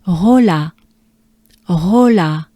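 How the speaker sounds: Rola, said clearly with French R; slow teacher model; model pronunciation. Shown as a demonstration. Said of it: "Take a good breath".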